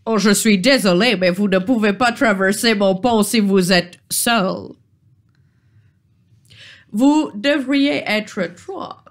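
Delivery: a lightly voiced, prim bridge troll, regretful; the troll politely turns them away. Troll refuses to let the lone player cross, politely.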